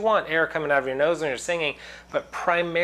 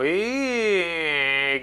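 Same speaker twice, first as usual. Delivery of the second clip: clear voice; 3 semitones higher than usual. Shown as a demonstration. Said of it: "I raised my soft palate".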